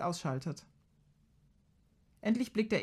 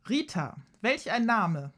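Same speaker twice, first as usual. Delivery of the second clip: loud exclamation; 4 semitones higher, slower than usual. Acted. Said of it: "tönt Kaya lautstark".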